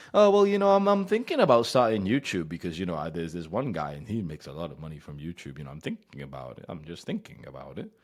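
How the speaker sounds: put-on timid boy hedging about YouTube; soft childish mumble. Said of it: "you speak like a fucking child".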